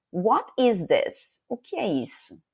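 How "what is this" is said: slow example. Shown as a demonstration.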